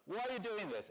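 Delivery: laughing question, voice of experience; laughing repeat. Retold or imitated. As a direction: say it again, amused and knowing. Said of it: "this is the voice of experience talking to you".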